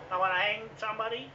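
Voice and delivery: loud, high, heated quote; furious shouted threat; angry declaration. Retold or imitated. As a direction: shout the threat as if it is your right. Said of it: "if I say to him".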